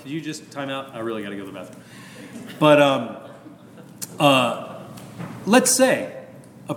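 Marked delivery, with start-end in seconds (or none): 0.0-1.8 aside plea. Retold or imitated. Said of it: "sometimes I'm like".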